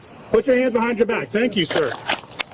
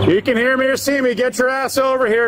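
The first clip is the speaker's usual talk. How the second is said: calling out. Real, not acted. Cop calling out to hiding suspect.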